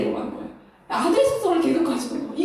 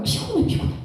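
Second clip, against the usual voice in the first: whispered weary complaint, pitched up; tired whisper; 6 semitones higher than usual. Real, not acted. Speaker admits she is tired of leading, whispered weariness. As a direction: sigh it out in a whisper, worn out. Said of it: "리더 하고 싶은 말 일도 없어요".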